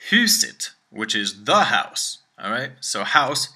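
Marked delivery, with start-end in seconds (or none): 0.1-0.7 huset with a high rising tone; Swedish word huset. Shown as a demonstration. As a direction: say huset with the pitch up. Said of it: "huset is an up tone".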